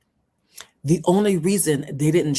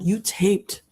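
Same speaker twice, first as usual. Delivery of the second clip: real anger; slower than usual. Real, not acted. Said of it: "Oh, I'm getting so mad".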